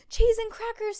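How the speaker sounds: very high, loud amazement; big startled storybook outburst; astonished exclamation. A narrator's reading. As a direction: burst out in disbelief. Judy astonished by royal letter.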